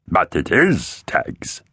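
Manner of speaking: gurgling hiss fading to breath; horrible hiss. A narrator's reading. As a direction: hiss the name almost voiceless. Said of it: "hissed the horrible figure".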